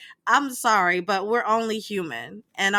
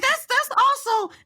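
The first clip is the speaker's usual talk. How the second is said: raised, scolding voice; retold yelling at chat; 3 semitones higher than usual. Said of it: "'cause my voice was down".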